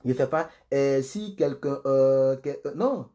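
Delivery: stumbling with drawn-out fillers; groping, halting reading. Shown as a demonstration. Pastor showing the fumbling reading they avoid, halting demo. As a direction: demonstrate hesitating over every few words. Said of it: "Je t'entends pas trop".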